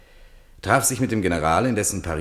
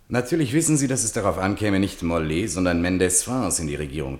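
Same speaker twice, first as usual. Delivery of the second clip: Malraux voice; 3 semitones higher than usual. Acted. Malraux voiced again, pitched high.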